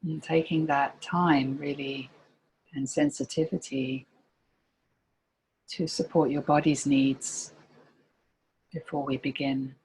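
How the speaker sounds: calm meditation guide with long pauses between phrases; guided meditation. Real, not acted. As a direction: gently lead listeners into body and breath, pausing often.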